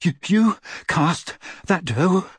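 put-on stunned, slow teen boy; Harry voice. A narrator's reading. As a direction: ask it in disbelief.

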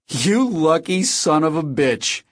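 high, slow, amused amazement; laughing disbelief. A narrator's reading. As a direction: marvel at a friend's outrageous luck, amused. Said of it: "Then H began to laugh".

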